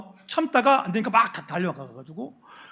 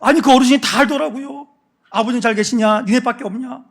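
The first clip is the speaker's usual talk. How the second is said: raised, hurried pleading excuses; pleading sons; 4 semitones higher, 5 dB louder than usual. Retold or imitated. Sons plead with their father, higher and faster. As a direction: talk fast to calm an angry father. Sons defend themselves to Jacob.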